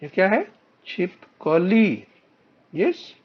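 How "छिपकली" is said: "छिपकली" slowly, long final "ली" falling away; syllable-by-syllable pronunciation. Shown as a demonstration. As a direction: draw "छिपकली" out for learners. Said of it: "उच्चारण है बच्चों".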